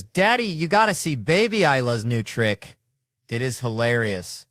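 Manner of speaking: put-on high, loud kid showing off to daddy; hammed-up child's excitement, slowing at the end; excited little girl. Retelling young daughter's excited announcement.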